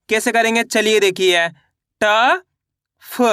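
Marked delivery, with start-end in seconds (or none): 3.0-3.2 फ cut short without the long aa; फ as a quick clipped consonant with only a tiny schwa; half sound. Shown as a demonstration. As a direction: say फ as a brief half letter, not फा. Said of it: "फा को आधा पढ़ेंगे".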